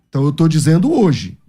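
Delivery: normal talking voice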